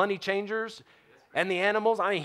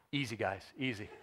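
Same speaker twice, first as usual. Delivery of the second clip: soft, low, careful caution; gentle; 7 semitones lower, 11 dB quieter than usual. Acted. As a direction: tread gently, hushed and low. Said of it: "real gentle".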